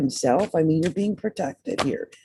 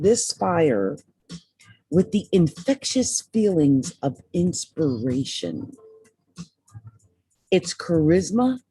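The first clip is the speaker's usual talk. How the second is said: slow, measured reading of the card text; slow inspirational affirmation read; card message reading; slower than usual. Acted. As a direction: read it like an affirmation, savoring each word. Reads card message aloud.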